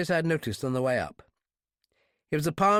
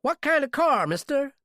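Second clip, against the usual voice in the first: sudden interest; 14 semitones higher, 4 dB louder than usual. Acted. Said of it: "he said quickly".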